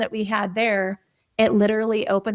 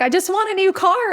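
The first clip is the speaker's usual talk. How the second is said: mock whiny teen; 8 semitones higher, 3 dB louder than usual. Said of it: "So she got all mad and was like".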